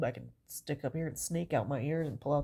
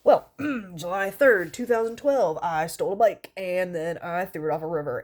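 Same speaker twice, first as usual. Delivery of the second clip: mock confession; 8 dB louder than usual. Confessing a bike theft to the cult, mock solemn. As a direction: confess it all proudly to the cult. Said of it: "and I'd be like".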